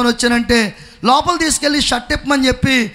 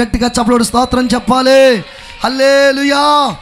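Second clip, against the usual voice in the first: louder rallying call to praise; preaching call; 3 dB louder than usual. Acted.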